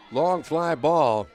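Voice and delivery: loud, excited home run call. Real, not acted. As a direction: build it up and shout the homer. Home run called in live broadcast.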